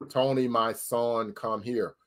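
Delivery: deep, slow, quiet voice of God; a movie God calling his son, low and drawn out; Hollywood God. Acted. God calls Tony over as in a movie, deep mock-divine voice. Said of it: "God doesn't talk like that. That's Hollywood".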